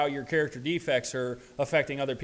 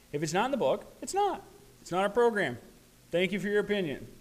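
"it's not" jumps sharply higher, dismissive; mock militant; 6 semitones higher, faster than usual. Sober man mocking his past militant self, curt dismissal. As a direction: brush off every opinion. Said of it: "very militant phase".

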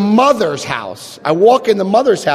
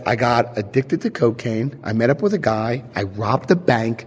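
low recital; 6 semitones lower, 6 dB quieter than usual. Retold or imitated. Retelling her list of harms.

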